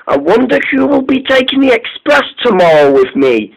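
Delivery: wondering. A narrator's reading. Mike muses about tomorrow's engine before sleep, wondering. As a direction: wonder aloud, lightly acted. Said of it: "he wondered".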